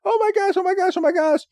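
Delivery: very high cartoon wailing; mock crying, panicked and repetitive; Sobble crying. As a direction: bawl in a tiny squealing voice. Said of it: "just starts crying".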